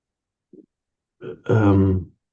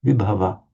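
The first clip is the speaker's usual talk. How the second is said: vibhava with the weight on vi; stress on vi; faster than usual. Shown as a demonstration. Teacher showing the stress he accepts, vibhava stressed on vi. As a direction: lean on the opening vi of vibhava. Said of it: "to stress the vi there".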